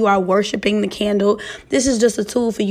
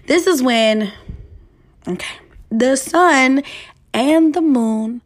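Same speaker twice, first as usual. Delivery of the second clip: slow, careful through hiccups; pushing words out between hiccups; 4 semitones higher, slower than usual. Real, not acted. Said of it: "I can't even talk right now".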